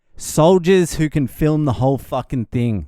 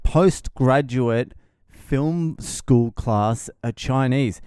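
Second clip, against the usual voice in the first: laughing disbelief; slower than usual. Real, not acted. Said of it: "A hundred percent".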